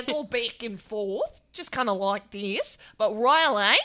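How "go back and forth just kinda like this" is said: accent drifting between Australian and English; wavering accent. Shown as a demonstration. Showing how their accents fluctuate, wavering Australian-English accent. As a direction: slowly slide from Australian to English. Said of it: "Australian and English, they fluctuate".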